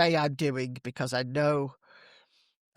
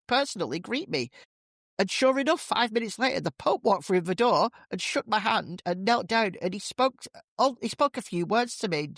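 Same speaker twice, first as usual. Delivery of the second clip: higher, proud, storytelling woman; smug woman; 4 semitones higher than usual. Acted. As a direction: savour every detail, a bit high. Woman brags in joke.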